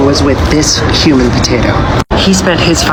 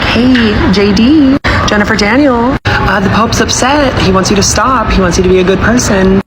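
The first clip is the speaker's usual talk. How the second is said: cardinal voice; 5 semitones higher than usual. Acted. Pope's cardinal voiced in skit.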